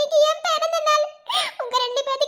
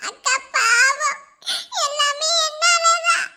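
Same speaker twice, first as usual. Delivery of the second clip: slow, crying as you beg; tearful plea. Acted. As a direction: let the tears break through. Pleading, crying heard. (அழுதபடி கெஞ்சுதல்)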